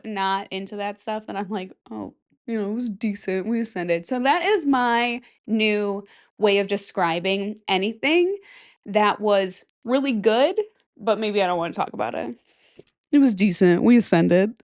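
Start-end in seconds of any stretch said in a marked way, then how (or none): 1.9-4.1 understated and unbothered; monotone voice. Retold or imitated. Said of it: "monotone voice". 13.1-14.5 louder deadpan delivery; flat and unbothered, said loudly; monotone voice. Retold or imitated. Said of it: "monotone voice".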